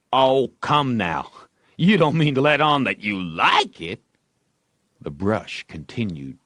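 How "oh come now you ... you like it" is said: lightly voiced skeptical boy; doubtful Ben. A narrator's reading. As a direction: needle him, not buying it.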